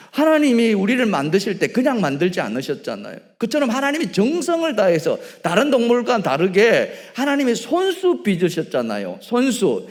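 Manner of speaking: loud, rising pulpit voice; booming sermon emphasis; fervent preaching. Acted. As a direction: preach it with full force. Preaching at full force.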